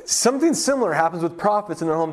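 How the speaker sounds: ordinary talk, nothing marked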